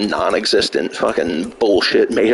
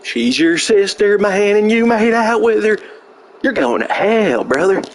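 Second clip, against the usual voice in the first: mock troll voice; 11 semitones higher than usual. Mocking troll's taunts.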